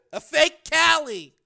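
gasp, then high, loud realization; sudden gasp. A narrator's reading. Frank realizing the truth, gasping astonishment. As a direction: catch the breath and cry it out slowly. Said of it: "breath came in a sudden gasp".

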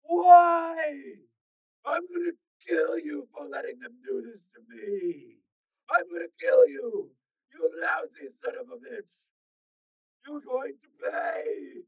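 anguished cries sinking into threats; hysterical half sob. Acted. Tormented man vows revenge for being remade, hysterical sobbing. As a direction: sob out the questions, then threaten. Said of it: "His voice was a hysterical half scream, half sob".

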